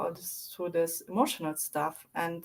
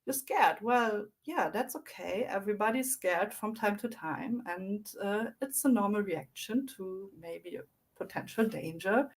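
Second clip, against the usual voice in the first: calm reassuring adult. Retold or imitated. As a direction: gently reassure a scared child. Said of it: "a nice, encouraging, calming voice".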